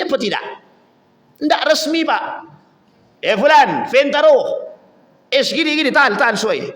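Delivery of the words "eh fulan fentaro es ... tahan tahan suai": bahasa Arab pasaran. Acted. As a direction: lightly mimic colloquial Arabic chatter. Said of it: "Itu bukan bahasa Arab resmi". (meniru obrolan Arab pasaran)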